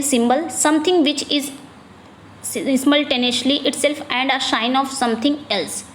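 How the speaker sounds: slow, careful reading of an exam question; slow dictation read. Acted. Teacher reading a quiz question slowly to the class. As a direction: read each word out slowly for students.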